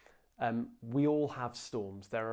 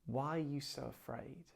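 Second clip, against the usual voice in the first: soft question; 8 dB quieter than usual. Retold or imitated. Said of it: "what he's saying is".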